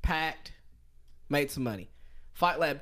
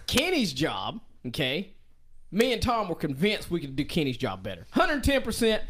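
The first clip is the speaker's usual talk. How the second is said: normal talking voice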